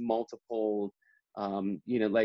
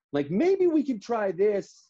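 higher, slow, unsure suggestion; hesitant colleague; 10 semitones higher, 4 dB louder, slower than usual. Retold or imitated. Editor Will tentatively suggesting a different line, higher and slow. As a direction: float an alternative line, slowly and doubtfully. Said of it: "it was just like".

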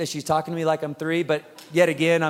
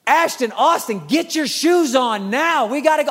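put-on firm call to the boys; 5 semitones higher than usual. Dad calling the boys, firmer.

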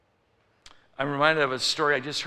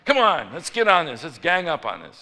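loud, higher egging-on; rallying the crowd; 4 semitones higher, 9 dB louder than usual. Retold or imitated. Customer recruits the line against the workers, loud rallying. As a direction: urge everyone to join the complaint. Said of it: "turn around to get the people".

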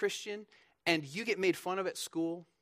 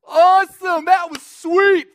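high, loud, drawn-out celebratory shout; high-fiving celebration; 12 semitones higher, 16 dB louder, slower than usual. Acted. Flogged apostles high-fiving each other, exuberant mock cheering. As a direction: whoop it like a teammate after a big win. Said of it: "they're high-fiving each other".

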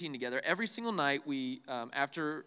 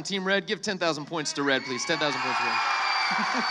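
loud game-show call to the room; calling out to crowd; 2 semitones lower, 5 dB louder than usual. Real, not acted. Preacher calling out points to the team playing along. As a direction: announce the points like a host.

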